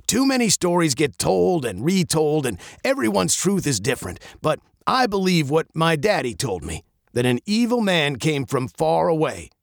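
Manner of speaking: lightly voiced old captain spinning a legend; storytelling captain. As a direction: draw the girl into the tale.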